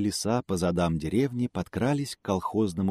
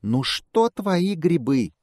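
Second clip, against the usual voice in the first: higher, slow squeak; squeaky squirrel; 10 semitones higher, 3 dB louder, much slower than usual. A narrator's reading. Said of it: "пищит белка". (белка пищит тонким голосом)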